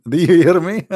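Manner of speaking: reading it through a laugh; mocking chuckle over the words. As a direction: laugh while reading the text back. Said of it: "He says".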